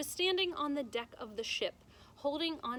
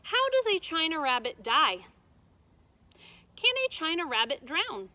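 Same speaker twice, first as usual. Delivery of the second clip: worried; 5 semitones higher, 8 dB louder than usual. Acted. Edward's frightened questions.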